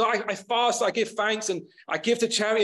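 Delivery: lightly mock a man praying for an audience; showy public prayer. Pharisee praying so everyone can hear, mildly showy retold prayer. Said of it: "praying to God so everyone can".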